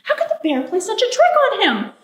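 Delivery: a touch of storybook fury; indignant anger. A narrator's reading. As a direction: sound affronted at being tricked.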